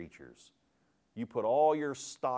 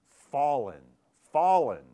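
louder second fallen, rising in force; mighty cry; 3 semitones higher, 9 dB louder than usual. Shown as a demonstration. Preacher booming the angel's cry to the church. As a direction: call it out like a herald angel. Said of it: "called out with a mighty voice".

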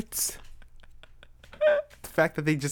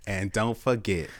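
put-on Southern accent; 4 dB quieter than usual. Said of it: "let's do it in a country accent".

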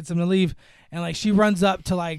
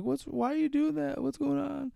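mock alarmed sister; 9 semitones higher, 6 dB quieter than usual. Sister confronts the two fighting brothers.

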